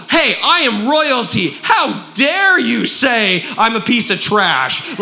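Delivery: slow, emphatic acted defiance; indignant declaring. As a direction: declare it straight at the devil. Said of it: "you just start declaring at him".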